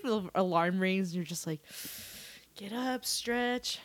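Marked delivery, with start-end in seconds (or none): 2.6-3.8 waking up. Acted. Acting a slow morning wake-up.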